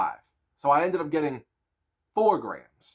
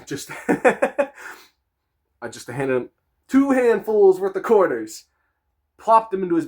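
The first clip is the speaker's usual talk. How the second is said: real laughter breaking through the words; laughing at his own story, words pushed out slowly; laughing while telling; 6 semitones higher, 10 dB louder, slower than usual. Real, not acted. Storyteller cracking up at his own clumsiness, laughing.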